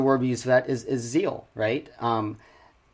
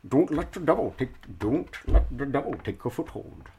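Sean Connery impression; 3 dB quieter than usual. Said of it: "I'd rather do it Sean Connery".

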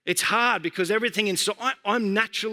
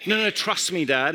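daughter imitation; 2 semitones lower than usual. Three-year-old assuring dad, lightly imitated. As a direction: play a small child dismissing dad. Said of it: "this is how she talks sometimes".

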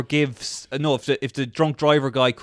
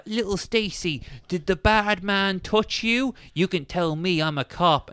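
mock gentle cop; 4 semitones higher, 5 dB quieter than usual. Cop questions a little girl.

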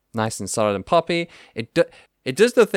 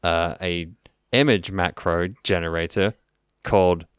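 villain voice; 4 semitones lower than usual. Acted. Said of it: "A good villain sounds like this".

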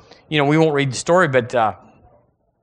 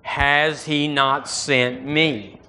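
"Has" hit hard, the whole line slow; slow, stressed "Has"; much slower than usual. Shown as a demonstration. Preacher leading the church, slow, stressing "Has". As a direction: lean on "Has" and draw the question out. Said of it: "Do it with me".

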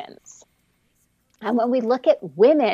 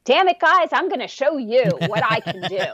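mock aggressive boss; 2 semitones higher than usual. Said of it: "aggressive management is like".

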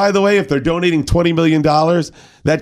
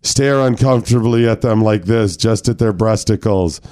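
seminar presenter. Acted. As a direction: address the men like a corporate trainer. Presenting mock harassment seminar.

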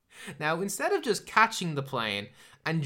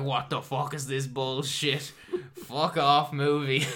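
louder, exasperated yell at the movie; angry outburst; 6 dB louder, slower than usual. Retold or imitated. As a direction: blow up at the screen, laughing through it. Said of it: "I was getting angrier and angrier".

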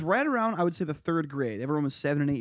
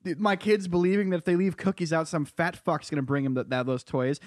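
mock indignant parent. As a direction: play a fed-up dad refusing Santa the credit. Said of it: "my stance would be like".

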